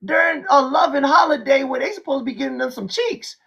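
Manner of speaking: high-pitched mock bewilderment; hammed-up exasperated squeal. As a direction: whine it out way up high, playing baffled. Acts out his baffled reaction.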